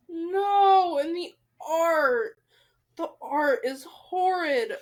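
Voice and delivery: loud, slow, anguished; distressed. Real, not acted. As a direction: wail over the horrid art. Distressed reaction to the art.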